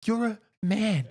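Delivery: high, slow mock old lady scolding; hammed-up Serbian granny telling him off; squeaky old woman berating a grown man; old women scolding. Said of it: "old women be like".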